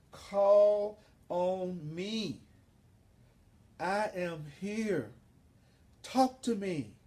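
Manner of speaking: slow, solemn divine promise with long pauses; Jesus. Acted. Jesus promising never to leave the listeners comfortless, slow solemn assurance. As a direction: draw out each phrase and let it hang. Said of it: "Jesus says".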